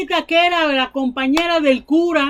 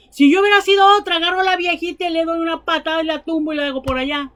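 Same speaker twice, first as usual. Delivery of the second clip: mock fiery outburst; 3 semitones higher, much faster than usual. Preacher jokingly imagines kicking the old grandmother, fast and heated. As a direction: rattle off the revenge fantasy.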